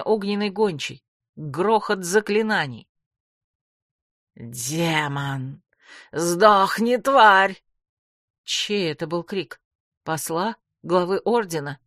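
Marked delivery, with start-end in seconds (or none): 4.3-7.6 furious cry. A narrator's reading. Someone screams at the demon.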